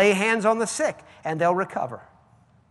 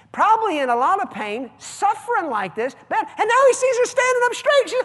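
much higher and louder, shouting with joy; ecstatic preaching shout; 9 dB louder than usual. Acted. Pastor to congregation celebrating her healing, jubilant shouting. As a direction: let the joy burst out full force.

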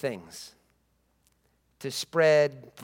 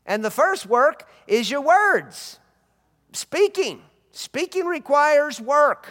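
preaching at full force; 4 semitones higher, 3 dB louder than usual. Acted. Preacher urging the congregation to speak God's word.

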